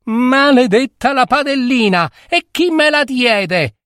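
high-pitched, furious curse; angrier outcry. A narrator's reading. Girl repeats her curse at the pan, angrily. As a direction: curse it high, with rising anger. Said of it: "più arrabbiata ripeté".

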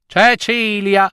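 high, insistent mother snapping; exasperated outburst. Acted. Mother ordering her unwilling daughter to go, exasperated. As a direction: lay down the law to a daughter. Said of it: "sbottò la mamma".

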